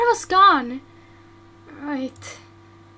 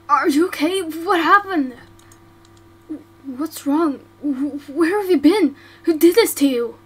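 louder, urgent worried questions; alarmed concern; 6 dB louder than usual. Acted. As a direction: rush to her, frightened for her. Finds injured friend, alarmed.

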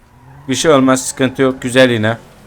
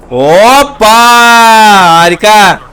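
excited whoop; 7 semitones higher, 7 dB louder, slower than usual. Real, not acted. Excited stunt while driving.

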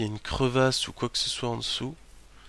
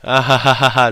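mock laugh; 12 dB louder than usual. Mocking laugh at sand.

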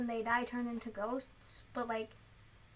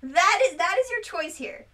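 put-on stern old lady ultimatum; 2 semitones higher, 8 dB louder than usual. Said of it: "she's like".

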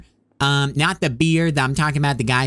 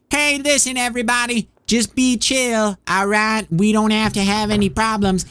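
higher-pitched announcement to everyone; addressing the room; 6 semitones higher than usual. Pretend. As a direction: get the whole bar's attention and settle them. Calls out to the whole bar.

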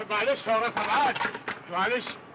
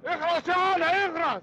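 raised, sharp order to shut up; angry shush; 6 semitones higher than usual. Acted. Uncle telling nephew to shut up, angry. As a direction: snap him into silence.

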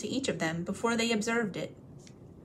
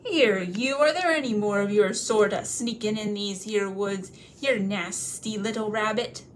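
threatening troll; 4 dB louder than usual. Acted.

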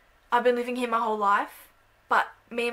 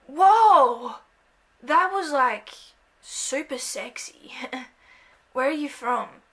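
flirty cashier; 2 semitones higher, slower than usual. Pretend. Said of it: "he'd be like".

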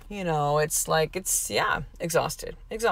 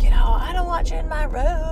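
higher-pitched imitation of a sulky boy; angry child; 11 semitones higher, 5 dB louder than usual. Son telling mom to leave his room, imitated high. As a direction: play the upset son shutting mom out. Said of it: "he's like".

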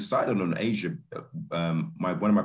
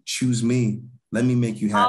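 higher, heartfelt retold love confession; raised-pitch imitation of an emotional plea; powerful retold plea; 6 semitones higher, 5 dB louder than usual. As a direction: plead it like a film speech. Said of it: "it's so powerfully delivered".

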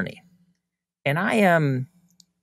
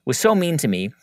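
put-on upset kid; 3 semitones higher, 5 dB louder than usual. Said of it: "when your kid comes to you and says".

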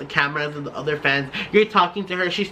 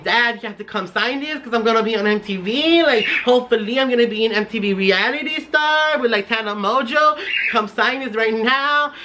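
put-on higher, insistent teen begging dad; excited pleading, retold; 4 semitones higher than usual. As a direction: re-enact urging dad to come sign. Retold urgent call to dad.

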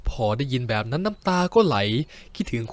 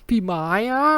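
high, suggestive whined name; sultry whine; 6 semitones higher, slower than usual. A narrator's reading. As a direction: whine the name, drawing out the end. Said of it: "น้องที่ร้องเสียงสยิวกิ้วออกมา".

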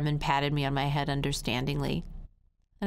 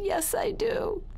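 very high, slow little voice; tiny drawn-out squeak of agreement; contrite child; slower than usual. Acted. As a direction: answer meekly as a tearful kid. Contrite child answers the principal.

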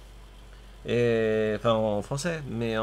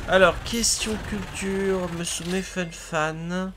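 slow, drawn-out game-show host announcing the question; quiz host voice; 4 semitones higher, slower than usual. Pretend. Streamer quizzing his teammate, light game-show host. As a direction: lightly play the quiz host, stretching each word.

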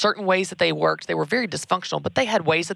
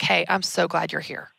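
softer, kind greeting; soft gentle tone. Shown as a demonstration. Leader greeting a struggling employee, soft and kind. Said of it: "like a softer tone of voice".

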